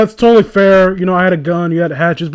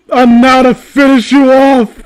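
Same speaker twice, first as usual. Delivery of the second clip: villain voice; 6 semitones higher, 6 dB louder than usual. Retold or imitated. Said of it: "It's like".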